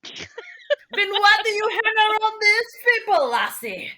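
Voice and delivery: high, slow put-on voice; surly character, dropping on the last word; needling Crouton. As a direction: question them in mock disbelief.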